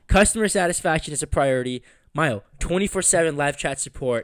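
polished, evenly paced ad read; sponsor read. Acted. Host thanking the sponsor for listeners, ad-read delivery. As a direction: read it out like a podcast sponsor spot.

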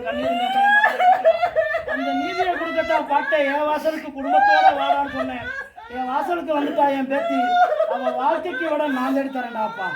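crying out, half laughing, half sobbing; tearful cry. Acted. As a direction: wail for the wronged granddaughter. Deity grieves for granddaughter's tears.

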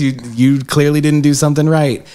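hammed-up scolding; exasperated manager. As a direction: chide the cast for not warming up. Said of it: "And I'm like".

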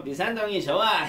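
loud playful boast; mock bee cheer. Teacher plays bee touting its district, loud mock cheer. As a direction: call it out like a keen scout bee.

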